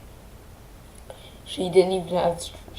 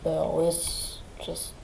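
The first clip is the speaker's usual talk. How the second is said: whisper; 7 dB quieter than usual. Real, not acted. Grieving, losing words.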